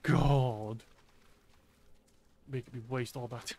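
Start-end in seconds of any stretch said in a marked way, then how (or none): 0.0-0.8 exasperated shout. Real, not acted. Exasperated at slow teammate.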